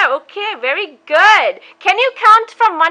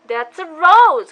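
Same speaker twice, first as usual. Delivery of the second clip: "rose" said slowly and clearly; slow clear model; slower than usual. Shown as a demonstration. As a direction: stretch out "rose" for the child. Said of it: "Can you say rose?".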